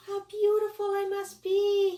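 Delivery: slow, high, dreamy little bug; high vain bug. Acted. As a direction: admire yourself in a tiny voice. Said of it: "he thought".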